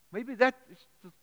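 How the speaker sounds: normal talking voice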